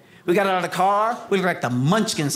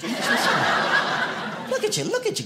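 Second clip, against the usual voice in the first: mock praise; 7 semitones higher, slower than usual. Teasing the teenager.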